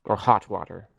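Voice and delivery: slow, careful asking; slow polite request. Acted. Adventurer slowly asking the barkeep for warm water. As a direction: draw the request out gently. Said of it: "I will say".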